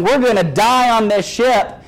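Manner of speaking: lightly acted panic, drawing out the words; mock panic. Disciples in the storm to each other, mock panic. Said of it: "they begin panicking".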